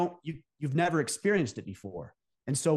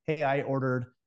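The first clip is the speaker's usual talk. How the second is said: politely sending back an overcooked steak; polite request. Shown as a demonstration. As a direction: ask nicely for a new steak, lowering the voice. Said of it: "So you very politely say".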